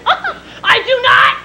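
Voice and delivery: high, mock-crying denial; tearful child's protest. Teased child to classmates, high whiny yell. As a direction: wail it like a teased kid.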